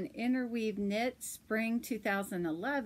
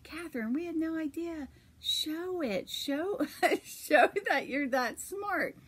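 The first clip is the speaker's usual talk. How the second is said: higher-pitched retold amazement; mock astonishment; 7 semitones higher than usual. Attending doctors amazed by her test score, astonished. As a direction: act out their surprise, breaking into a laugh. Doctors' surprise acted out in retelling.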